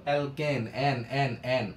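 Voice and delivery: মিথেন with the ending এন repeated, punched; ending drilled. Shown as a demonstration. Teacher shows students the pronunciation, punching the ending. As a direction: drill the sound এন again and again. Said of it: "দেখো উচ্চারণটা দেখো".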